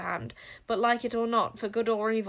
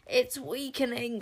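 screech; 3 semitones higher, slower than usual. Acted. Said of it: "screeched the King Witch".

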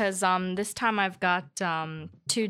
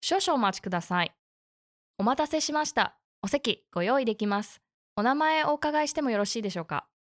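customer service voice. Acted. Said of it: "I love your beautiful N H K Japanese".

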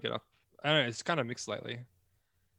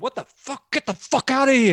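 high, loud monster shout; shouting creature voice; 12 semitones higher, 14 dB louder than usual. Pretend. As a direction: roar them out of the room. Chasing co-host off, outro.

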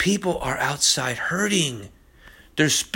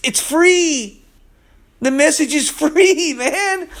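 laughing; 9 semitones higher, 3 dB louder, slower than usual. Real, not acted. Preacher laughs about being free.

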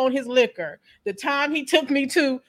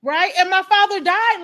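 real sobbing, loud and very slow; grieving daughter breaking down over her father; crying; 6 semitones higher, 13 dB louder, slower than usual. Real, not acted. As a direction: choke out the words through tears. Tearful memory of father's death.

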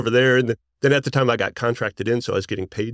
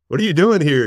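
surprised; 7 semitones higher, 6 dB louder than usual. Retold or imitated. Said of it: "And I'm like".

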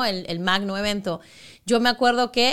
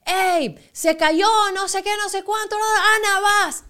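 much higher and louder, urgent colleagues; urgent call-out; 9 semitones higher, 4 dB louder than usual. Retold or imitated. Colleagues urgently calling Ana to jump in, higher and louder. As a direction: snap her into action on air. Colleagues urging her on air.

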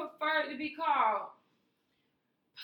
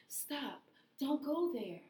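softer, hushed imitation of a spiritual lady; mock spiritual whisper-voice; 7 dB quieter, slower than usual. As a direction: hush it like a spooky poem reading. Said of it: "That's how she talked".

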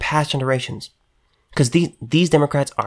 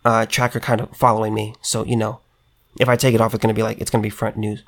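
mock Rashida Tlaib; 3 semitones lower, faster than usual. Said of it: "Rashida Tlaib says".

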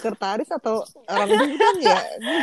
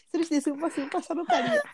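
fast, high disguised witness voice; like an anonymous informant on TV; disguised interview voice; 6 semitones higher, 3 dB quieter, faster than usual. Pretend. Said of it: "Suaranya disamarkan kayak diinvestigasi itu".

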